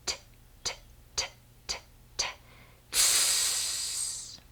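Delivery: whispered "t" repeated, then a long hissing "tss"; exploding T demo. Shown as a demonstration. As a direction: pop the "t" and stretch the air into "tss". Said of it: "and we do".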